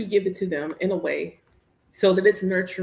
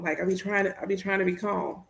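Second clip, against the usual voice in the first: forced calm; 6 dB quieter than usual. Real, not acted. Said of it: "I gotta be calm".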